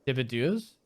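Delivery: "Debardeurs" said as day-bar-DURS with a French touch; shown pronunciation. Shown as a demonstration. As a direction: sound out "Debardeurs" French-style. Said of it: "How do you say that?".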